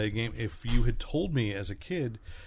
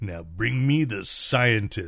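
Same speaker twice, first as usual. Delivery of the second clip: action-movie robot leader voice; 5 dB louder than usual. Performing a key line from an action figure movie: Optimus Prime voice. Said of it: "my Peter Cullen, uh, Optimus Prime".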